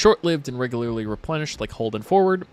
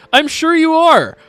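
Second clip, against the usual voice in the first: sarcastic; 10 dB louder, slower than usual. Real, not acted. Sarcastic reply to comment.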